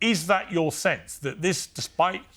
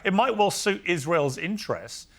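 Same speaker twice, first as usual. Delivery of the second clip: insistent interruption; 6 semitones higher than usual. Real, not acted. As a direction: talk over the guest to hold the floor. Host fights for the floor.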